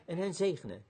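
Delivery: lightly voiced pastoral prayer. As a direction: speak gently to God over the child. Leads a dedication prayer.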